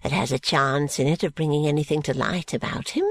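put-on old schemer working himself up; indignant old man. Old man's indignant tirade.

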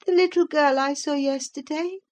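put-on high childish voice, questioning; a boy asking anxiously; puzzled child. A narrator's reading. Linton continues question.

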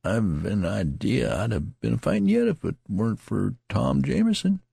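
lightly voiced country soldier; tattered soldier. A narrator's reading. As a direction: play the rambling wounded soldier. Tattered man's dialogue voice.

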